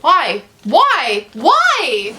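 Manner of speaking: exasperated whys. Real, not acted. Despair at beast porn.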